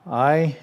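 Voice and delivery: "I" drawn out slowly like the vowel in isle; diphthong sound. Shown as a demonstration. Teacher modelling alpha iota for students, slow and clear. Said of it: "it sounds like".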